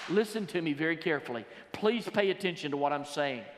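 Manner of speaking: quick, pressing call to listen; urgent plea. Shown as a demonstration. Preacher urging his congregation to listen, quick and pressing. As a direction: rush it, pleading for attention. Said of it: "I would say it this way".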